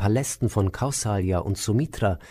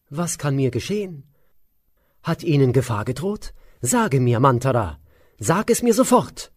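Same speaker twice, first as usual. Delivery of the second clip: demanding queen; 4 semitones higher than usual. Acted. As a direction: press her to speak at once. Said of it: "forderte die Königin".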